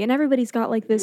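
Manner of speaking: very soft. Retold or imitated. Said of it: "It's very soft the entire movie".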